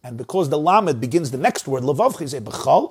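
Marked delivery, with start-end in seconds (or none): 2.4-2.9 b'chol closed off on its L; pause after b'chol. Shown as a demonstration. Teacher showing where to break, pause after b'chol. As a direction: finish b'chol, then wait. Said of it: "a pause".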